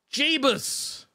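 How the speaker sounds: high squeaky Jeebus of disbelief; comic high-pitched gasp of Jeebus; shocked. Real, not acted. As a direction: yelp it out in disbelief. Shocked at gifted memberships.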